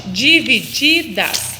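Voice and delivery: divididas very slowly, the second di stretched; syllable-by-syllable stress. Shown as a demonstration. Teacher asks which syllable is strongest, divididas drawn out. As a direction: sound out divididas, weight on the second di. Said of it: "Qual que é mais forte".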